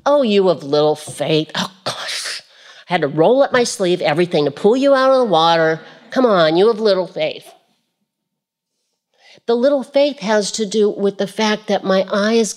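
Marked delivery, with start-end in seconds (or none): 0.1-7.5 mock exasperated Jesus. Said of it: "I don't see him saying".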